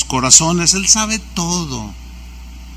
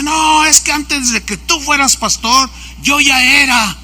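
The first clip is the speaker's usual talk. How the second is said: higher-pitched mock indignation; imitated brusque pastor; 5 semitones higher than usual. Jealous pastor answers the speaker, imitated brusque indignation. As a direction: act out a resentful colleague's retort. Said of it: "me empieza a hablar muy fuerte".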